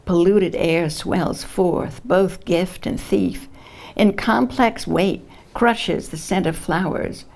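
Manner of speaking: measured poetry reading with weighted phrases; poem reading. Acted. Poet reads a climate poem to an audience, measured recitation. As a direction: recite it in deliberate phrases, pausing at line breaks.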